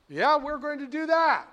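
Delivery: confident Kennedy. Retold or imitated. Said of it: "Kennedy answering scientists".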